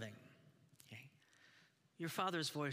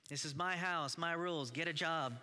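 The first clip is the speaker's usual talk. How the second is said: strict father; 4 semitones higher, 4 dB louder than usual. Retold or imitated. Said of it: "our father's voice that says".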